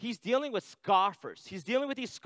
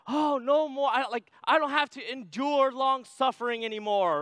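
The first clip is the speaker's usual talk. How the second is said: relieved cheer; 6 semitones higher, 4 dB louder than usual. Retold or imitated. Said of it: "so I'm like".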